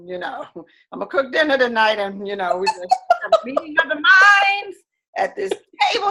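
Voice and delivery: playful mock husband calling his wife to the kitchen table; imitating husband. Wife teasing in her husband's pleading voice. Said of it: "did your husband say".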